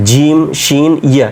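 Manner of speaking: জিম, শিন, ইয়া from one spot behind the ridge; articulation demo. Shown as a demonstration. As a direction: say জিম, শিন, ইয়া carefully from the same tongue position. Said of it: "এই তিনটা উচ্চারণ এক জায়গা থেকে হয়".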